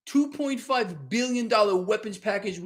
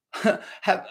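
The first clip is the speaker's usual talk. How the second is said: chuckling through the words; can't help laughing at the bad news; slow, amused laugh mid-sentence; 2 semitones higher, 7 dB louder, slower than usual. Real, not acted. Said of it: "I'm laughing".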